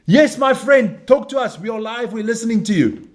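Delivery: hammed-up studio host cue; mock TV host. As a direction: greet the field reporter like a news anchor. Hosts calling live reporter.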